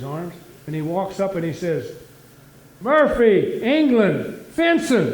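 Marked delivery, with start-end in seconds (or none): 2.8-5.1 loud, formal, high call at the gate; proud announcement. Acted. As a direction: announce yourself like an Olympian.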